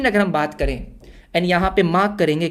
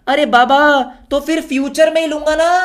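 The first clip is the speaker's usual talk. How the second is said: higher, louder playful protest; mock exasperation; 6 semitones higher, 4 dB louder than usual. Buyer explaining why he will wait, mock exasperated. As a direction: protest as if it were obvious.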